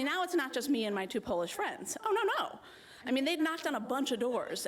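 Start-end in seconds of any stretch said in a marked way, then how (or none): 2.0-2.6 laughing oh no, much higher; amused disbelief, laughing through the words. Real, not acted. Laughing at the growing crowd.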